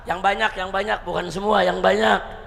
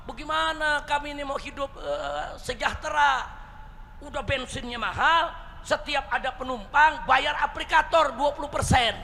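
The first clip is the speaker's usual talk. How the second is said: imitated plea in a raised pitch; protesting; 5 semitones higher than usual. Ojek driver complaining about costs and fees, protesting. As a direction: voice a worker's grievance, pitched up. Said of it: "Nah, tukang ojek protes".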